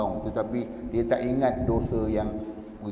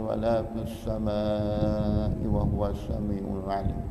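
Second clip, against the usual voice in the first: prayer recitation. Real, not acted. Closing Arabic prayer recitation.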